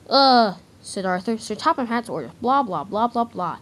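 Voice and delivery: loud groan into mocking blah blah. Arthur mocking Sir Topham Hatt's orders, sarcastic. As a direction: dismiss the boss's orders sarcastically.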